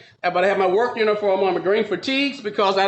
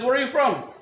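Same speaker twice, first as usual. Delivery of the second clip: put-on higher Japanese-accented question; imitated Japanese-accented interrogation; Japanese judge; 4 semitones higher than usual. Judge questions him, acted.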